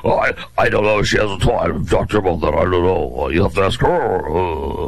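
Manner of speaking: a mocking low rasp for the dodging candidate; gravelly voice. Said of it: "isn't my gravelly voice awesome".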